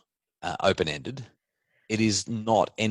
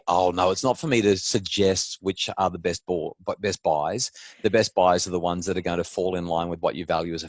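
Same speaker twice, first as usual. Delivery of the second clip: politician voice. Acted. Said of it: "use my best politician voice here".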